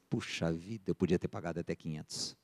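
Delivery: low, very soft acted muttering; hushed aside. Buyer just outside after the deal, muttering privately. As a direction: say it under your breath, as if to yourself.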